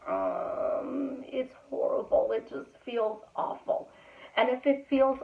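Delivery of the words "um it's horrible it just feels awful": mock misery. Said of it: "you're gonna be like".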